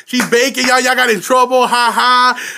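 playful imitation of teasing friends in trouble; mock gloating. Laughing at friends caught by mom, playfully gloating. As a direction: retell a gleeful ribbing. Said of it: "Making fun of y'all".

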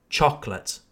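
"chocolate" in two syllables, CHOK-lət; second O dropped. Shown as a demonstration. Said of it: "We don't pronounce the second O".

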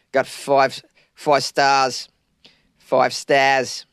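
a light attempt at an Australian accent. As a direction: drawl the vowels like an Aussie. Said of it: "I have a terrible Australian accent".

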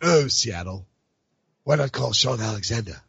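a hint of a spoken-word performer. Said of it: "you have the perfect spoken word voice".

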